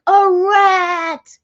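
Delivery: high, loud, tearful wail; mock-tearful cry of a rat victim. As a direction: whimper it out like you're still shaken. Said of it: "I'm like".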